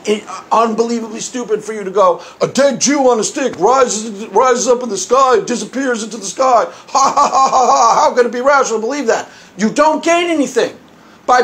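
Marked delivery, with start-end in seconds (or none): 2.4-9.3 mocking scoff with fake laughing; dumbo-style mockery. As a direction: imitate a dismissive debater, mildly sneering. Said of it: "presenting it in Dumbo language".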